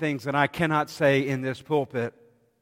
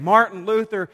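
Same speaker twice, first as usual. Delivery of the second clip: commanding inner voice; 6 semitones higher, 6 dB louder than usual. Retold or imitated. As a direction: thunder each "stand up" like a summons. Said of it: "I could hear an inner voice saying".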